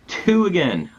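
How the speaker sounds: high, loud outburst that falls away; loud exclamation. Real, not acted. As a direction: cry out at the bad roll. Reacting to implosion's result.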